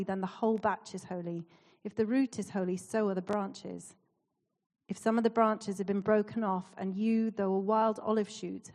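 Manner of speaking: measured, even reading aloud; scripture reading. Acted. Speaker reading Romans to a church, measured scripture reading. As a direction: read the passage out evenly, phrase by phrase. Reads a Bible passage aloud.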